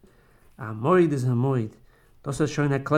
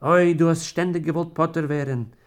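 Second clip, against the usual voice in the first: bitter weeping; 2 semitones higher, 4 dB louder than usual. Acted. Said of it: "Weint sie bitter".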